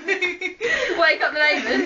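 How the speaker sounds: slow, laughing. Real, not acted. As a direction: laugh it out slowly.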